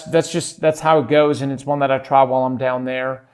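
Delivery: put-on mild American accent, folksy; Southern US accent. Host trying his US accent on listeners, lightly. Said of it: "my little accent there from the United States".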